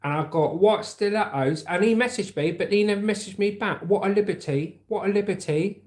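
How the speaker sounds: high-pitched Essex accent. Shown as a demonstration. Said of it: "That's Essex".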